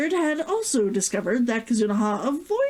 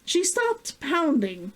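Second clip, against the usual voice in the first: story reading. A narrator's reading. Author reading her latest chapter to viewers, calm story narration. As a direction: read your own novel to the audience. Reads her novel aloud.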